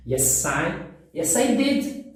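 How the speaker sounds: "Yes, I did" with a voiceless S at the end of "Yes". Shown as a demonstration. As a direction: model "Yes, I" with a clean S, no Z. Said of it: "o yes é S mesmo". ("Yes, I did" com S de verdade, sem som de Z)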